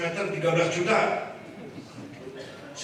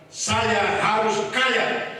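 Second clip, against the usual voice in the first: slow, louder chant line; call to repeat; 4 semitones higher, 4 dB louder, much slower than usual. Shown as a demonstration. Kiai leading the congregation in a chant, slow loud. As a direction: lead the crowd, drawn out. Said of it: "Ayo bunyi bareng".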